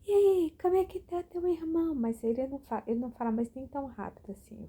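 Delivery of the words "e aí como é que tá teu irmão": high, loud imitation of the old man calling out; mock old man greeting, much higher and louder; old neighbor greeting. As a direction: mimic the old neighbor's cheery hello. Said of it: "e ele".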